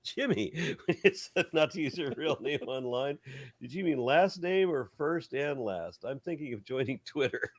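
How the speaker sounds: laughing while reading the comment again; laughing reread. Acted. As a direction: reread it barely holding back laughter.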